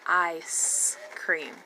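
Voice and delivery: "Ice cream" slowly, with a held I; long I sound. Shown as a demonstration. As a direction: draw out "Ice", then say "cream" apart. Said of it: "That is the long I".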